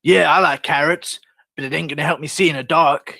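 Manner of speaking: rambling fighter, said with mock conviction; a light send-up of a fighter; Tony Ferguson. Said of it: "the sort of thing he'll say".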